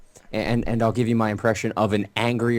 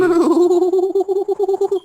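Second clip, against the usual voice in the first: manatee moo; 8 dB louder than usual. Retold or imitated. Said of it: "so I'm assuming it goes like".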